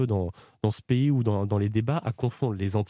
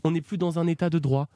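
small voice; 4 semitones higher than usual. Acted. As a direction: put on a light little voice to grab attention. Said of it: "Pourquoi vous prenez cette petite voix".

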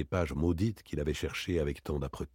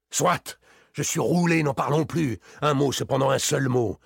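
bitter defeat; 6 semitones higher, 5 dB louder than usual. Acted. Varin, beaten, still enraged.

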